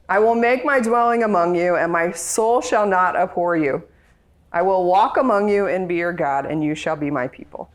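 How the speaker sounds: tender reading. Shown as a demonstration. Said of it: "who doesn't want to hear this?".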